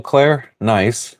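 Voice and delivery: ordinary talk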